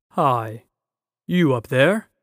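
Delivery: loud lion's roar calling up; lion roaring up to a giant. A narrator's reading. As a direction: bellow it up at the giant. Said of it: "he roared".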